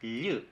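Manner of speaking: "y" as a palatal L with a short central vowel; Mapudungun LL sound. Shown as a demonstration. Teacher modelling the double L, Mapudungun LL sound. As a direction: sound out "y" alone, tongue flat on palate. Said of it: "se pronuncia como".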